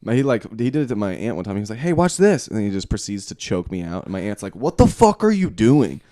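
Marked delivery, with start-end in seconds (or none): 1.8-2.5 higher-pitched eager boast; mock showing off. Brother showing off to his aunt, mock eager call. 4.6-6.0 raised, louder mock scolding; mock outrage. Aunt catching brother choking him out, mock outraged yell.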